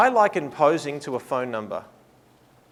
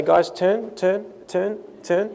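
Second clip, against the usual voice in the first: calling out; 4 semitones higher, much slower than usual. Shown as a demonstration. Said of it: "press the pause button and say".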